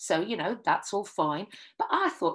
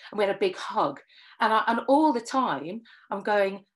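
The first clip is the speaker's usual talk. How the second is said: usual speaking voice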